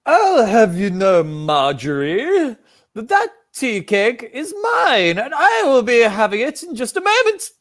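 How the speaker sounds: prim granny staking her claim; foul mouthed granny. Acted. Improv granny quarrel over tea cake.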